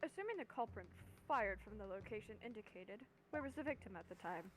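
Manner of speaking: talking with food in mouth; words round a bite of food; mouth full. Real, not acted. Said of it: "I have food in my mouth".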